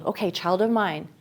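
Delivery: put-on a parent calmly coaching an angry child; gentle coaxing. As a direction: soothe an upset child. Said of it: "that child tells you".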